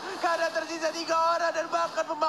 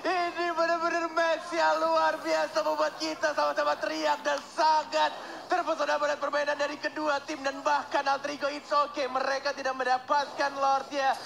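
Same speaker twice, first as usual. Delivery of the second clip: excited caster; 4 semitones higher than usual. Acted. Hyped caster recap.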